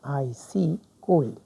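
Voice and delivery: आईसी कोल्ड whispered, slow and unvoiced. Shown as a demonstration. Teacher whispering the new phrase to the class. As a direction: breathe आईसी कोल्ड as a hushed secret. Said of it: "तो आप क्या करेंगे?".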